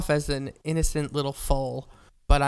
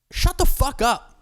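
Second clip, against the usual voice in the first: exasperated; 8 semitones higher, slower than usual. Real, not acted. Ranting at weed fans.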